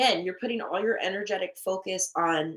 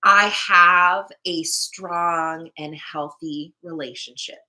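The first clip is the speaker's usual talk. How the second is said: very slow, emphatic declaration; deliberate, assured affirmation; positive affirmation; 2 semitones lower, 7 dB louder, much slower than usual. Shown as a demonstration. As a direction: proclaim it word by word, strong at the start. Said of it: "you gotta stay positive".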